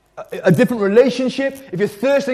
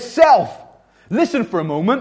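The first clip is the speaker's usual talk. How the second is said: raised, firm address to oneself; standing up to oneself; 4 semitones higher than usual. Acted. Psalmist standing up to his crushing soul, firmly. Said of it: "So he stands up and he says".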